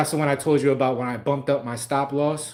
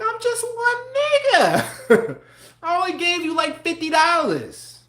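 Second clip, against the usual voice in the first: much higher, slow, squeaky pleading voice; whiny plea; 3 dB louder than usual. Retold or imitated. Pleading with the market over fifty dollars, high squeaky whine. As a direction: squeak it out like a small helpless guy begging. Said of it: "I was like".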